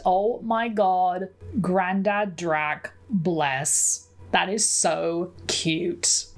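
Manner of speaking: slow, drawn-out fond gushing; slow and doting; charmed. Real, not acted. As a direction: stretch each phrase, melting at how cute it is. Charmed by granddad's clumsy email.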